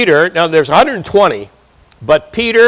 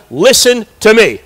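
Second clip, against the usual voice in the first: higher, firm preacher's command; bold authority; 4 semitones higher than usual. Acted. Peter telling the crowd to hear him, boldly authoritative. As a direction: demand attention with authority. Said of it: "a boldness and an authority".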